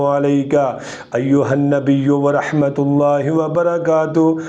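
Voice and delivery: measured, devout recitation of the tashahhud; prayer recitation. Shown as a demonstration. Qari demonstrating witr prayer for viewers, devout recitation.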